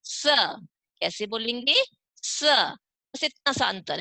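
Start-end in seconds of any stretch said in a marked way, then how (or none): 0.0-0.4 स said with the tongue at the teeth; touch the teeth for a hissing "स"; isolated "स", a dental s sound. Shown as a demonstration. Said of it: "जीभ को दांतों से touch करेंगे". 2.2-2.4 स said with the tongue at the teeth; touch the teeth for a hissing "स"; isolated "स", a dental s sound. Shown as a demonstration. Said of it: "जीभ को दांतों से टच करेंगे".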